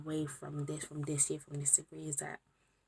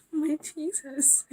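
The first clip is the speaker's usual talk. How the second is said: laughing; 10 semitones higher, 6 dB louder, much slower than usual. Real, not acted. Laughing in disbelief.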